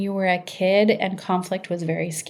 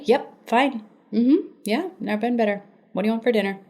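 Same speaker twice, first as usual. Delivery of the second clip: mock bright, higher "fine" that hides anger; passive-aggressive fake cheer; 3 semitones higher than usual. Partner hiding anger behind a chirpy, higher, mock-cheerful "fine". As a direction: play it sweet but clearly sulking. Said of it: "Passive aggression would be".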